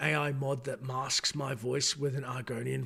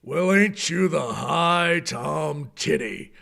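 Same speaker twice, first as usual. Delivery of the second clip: orc voice; 5 dB louder, much slower than usual. Shown as a demonstration. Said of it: "The orc voice".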